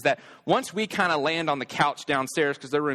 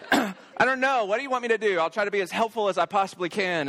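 raised-pitch mock exasperation; frustrated dad; 7 semitones higher than usual. Dad at a loss with scared kids, retold frustration. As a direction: throw up the question, retold at wit's end. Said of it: "I'm just frustrated. I'm annoyed".

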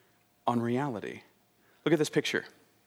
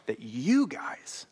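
"you" drawn out slowly; slow, leaning heavily on "you"; stress on YOU; much slower than usual. Shown as a demonstration. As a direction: stretch "you" for emphasis. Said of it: "and emphasize the you".

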